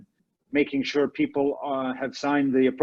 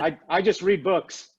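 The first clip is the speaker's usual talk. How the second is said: laughing; 3 semitones higher than usual. Real, not acted. Laughing after a teasing exchange.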